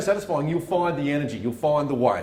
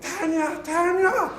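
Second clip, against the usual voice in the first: calling out; 12 semitones higher, much slower than usual. Retold or imitated. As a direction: call her name from the couch, rising. Calling wife from the couch.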